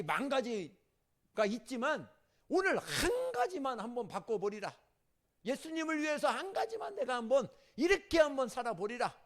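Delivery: loud, high, urgent exhortation; fiery preaching. Real, not acted. Pastor urging the congregation to change now, loud fiery preaching. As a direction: drive the call to change home.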